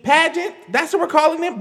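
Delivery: high, loud disbelief; stunned outrage at the word; incredulous. Real, not acted. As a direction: repeat it back in shock. Incredulous reaction to pageant.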